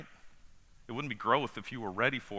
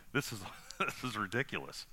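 real laughing. Real, not acted. Preacher amused by his own example, laughing. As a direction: let a laugh break up the words.

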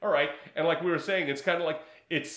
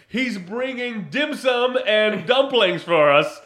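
mock excited; 7 semitones higher, 10 dB louder, slower than usual. Imagined soldier thought, mocking.

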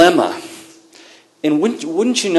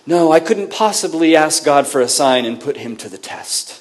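mock-pious and sugary; a lightly voiced syrupy piety; churchy, syrupy. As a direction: play the falsely humble king. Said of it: "in this kind of churchy, kind of syrupy way".

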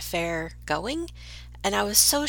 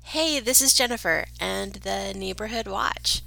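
whispered intro. Acted.

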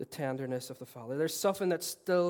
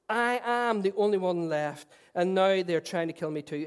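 loud, aggrieved prophet pouring it out; Elijah's complaint; 4 semitones higher, 7 dB louder than usual. Acted. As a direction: plead your case to God. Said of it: "He replied".

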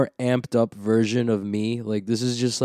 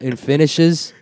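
raised-pitch put-on Australian; Australian accent; 4 semitones higher, 4 dB louder, slower than usual. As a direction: show off a mock Aussie accent. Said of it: "I have the best Australian accent".

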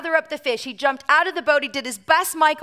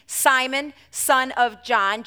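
full-name call; 4 dB louder, much slower than usual. Shown as a demonstration. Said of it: "when your mother calls you by your full name".

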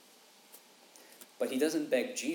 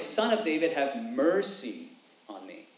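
pleading cry; 4 dB louder than usual. Retold or imitated. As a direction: cry out to him, begging. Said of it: "His, his cry is".

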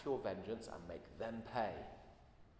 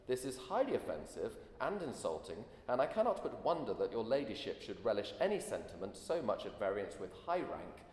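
indignant aristocratic lady, louder; terse haughty letter; 2 semitones higher, 6 dB louder than usual. Retold or imitated. Preacher reading the duchess's letter, mild haughty indignation. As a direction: read it out with offended upper-class scorn. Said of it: "polite but rather terse letter".

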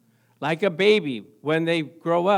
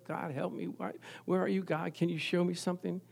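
sleepless prayer; 12 dB quieter than usual. Retold or imitated.

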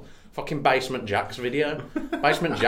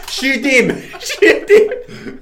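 laughing mock order; 14 semitones higher, 11 dB louder, much slower than usual. Mocking Musk shooting chimp.

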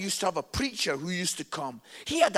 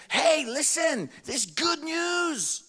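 higher, slow upbeat announcement; lightly cheerful announcing; 6 semitones higher, slower than usual. Retold or imitated. Telling the country the good news, a hint of cheerful brightness. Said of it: "I go around saying".

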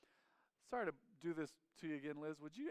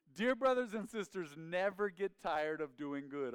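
loud, raised start, slowing down on the ending; forceful verse reading; 3 semitones higher, 6 dB louder than usual. Real, not acted. Preacher repeating the verse to the church, emphatic. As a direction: preach it emphatically in the usual accent. Reads verse again without the accent.

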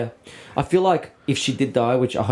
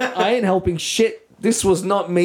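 higher, drawn-out indignant protest; mock-defensive, washing hands of it; indignant refusal; 4 semitones higher than usual. Friend retelling why he bolted, indignant.

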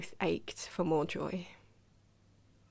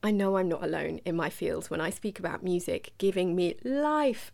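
RuPaul impression. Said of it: "that's enough with the RuPaul impressions".

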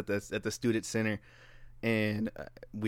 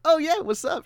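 high-pitched, hopeful greeting; mock eagerness; 3 dB louder than usual. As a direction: act out a keen reply. Eager reply to pretty girl.

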